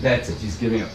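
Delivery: ordinary delivery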